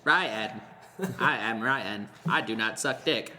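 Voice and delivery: mock robot voice; imitating a flat robot. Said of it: "Sounded like a robot".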